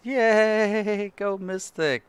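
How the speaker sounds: high, bright yay of victory; excited cheer. Real, not acted. Cheering a game result.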